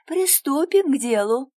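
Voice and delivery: выше и громче, приторно-сладко; заманчиво, приторно; сладким голосом. A narrator's reading. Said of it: "сладким голосом произносит она". (сладким голосом)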